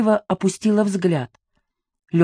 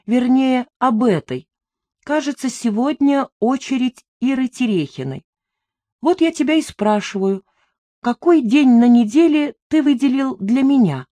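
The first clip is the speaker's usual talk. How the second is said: shrill rising jealous tirade, higher; wild unhinged ranting; 6 semitones higher than usual. Acted. Jealous rant climbing in pitch.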